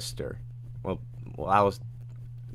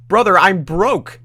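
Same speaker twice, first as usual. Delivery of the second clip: high, loud, drawn-out protest; exasperated yell; 10 semitones higher, 11 dB louder, slower than usual. Acted. Streamer playing themself arguing with Dandy, exasperated high yell. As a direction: yell it back in mock exasperation. Acts out own reply to Dandy.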